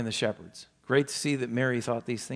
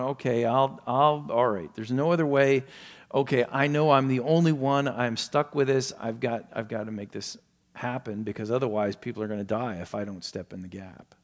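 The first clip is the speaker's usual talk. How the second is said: resigned obligation. Retold or imitated. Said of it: "the attitude that he was".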